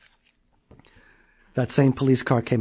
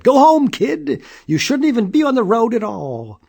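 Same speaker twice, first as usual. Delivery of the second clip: stern cop; 10 semitones higher, 6 dB louder than usual. A narrator's reading. Police officer scolds.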